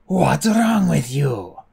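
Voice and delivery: loud, slow furious yell; angry yell. A narrator's reading. Fjord yelling at Clay, furious. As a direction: yell at him in outrage. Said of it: "Fjord yelled at Clay".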